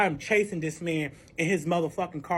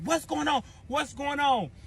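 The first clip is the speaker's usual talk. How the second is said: high-pitched nosy chorus; higher, repeated questioning; curious onlookers; 7 semitones higher than usual. Retold or imitated. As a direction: mimic everybody asking around. Mimics everybody in the city asking.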